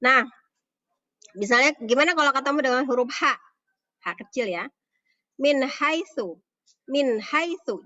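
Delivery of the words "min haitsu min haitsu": "Min haitsu" with a distinct n, then h; higher, deliberate "Min haitsu"; clear reading. Shown as a demonstration. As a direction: sound "Min" without humming into haitsu. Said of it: "Jadi jelas bacanya".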